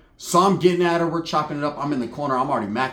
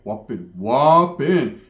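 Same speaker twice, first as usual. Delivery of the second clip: imitated primo; 4 semitones lower, 3 dB louder, much slower than usual. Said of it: "he's looking at me like".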